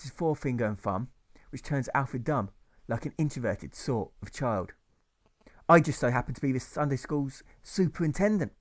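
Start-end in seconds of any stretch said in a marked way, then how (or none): 5.7-8.5 a touch of riled annoyance; lightly bristling, disturbed. Acted. Superintendent confronting Alfred, mildly riled and perturbed. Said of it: "in a voice which sounds disturbed, perturbed, and riled".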